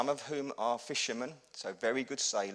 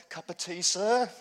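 lightly voiced flight attendant, pitched up; unruffled cabin crew; 5 semitones higher, 6 dB louder than usual. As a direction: offer it as if nothing is wrong. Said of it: "They carry on tootling along".

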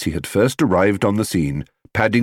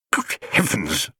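softer, startled splutter; 2 semitones lower, 4 dB quieter than usual. A narrator's reading. Father shocked at the bear, spluttering. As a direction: choke on the surprise. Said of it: "spluttered Mister Brown".

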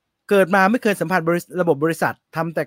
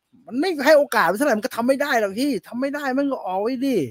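blunt dismissive boss; 7 semitones higher than usual. Retold or imitated. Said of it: "ผมก็เป็นพวกแบบ".

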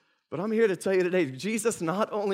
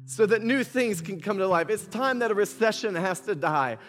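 rising preaching declaration; 2 semitones higher than usual. Acted. Building repeated "has to die" declarations.

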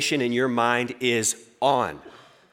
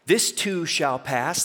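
slow and gentle; mildly mocking gentle mantra; soft mantra; 2 semitones higher, much slower than usual. Shown as a demonstration. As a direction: say it calmly and slowly, mock soothing. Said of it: "That sounds a little too soft for me".

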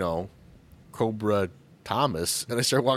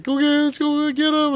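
high, loud rallying yell; loud mock battle cry; excited crowd shouting; 10 dB louder than usual. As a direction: holler like a mob giving chase. Acting out a crowd rushing off.

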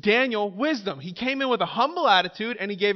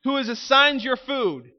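nervous official; 3 semitones higher than usual. Pretend. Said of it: "He's like".

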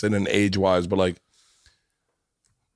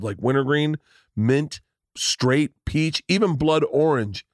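ad read; 2 semitones higher than usual. Acted. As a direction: sell it like a radio spot. Sponsor ad read.

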